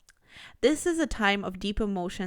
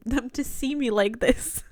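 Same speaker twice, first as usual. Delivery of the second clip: amused pet voicing; 4 semitones higher, 4 dB louder than usual. Reader speaking as the shy pet, amused and laughing. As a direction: voice the pet's confession, tickled by it.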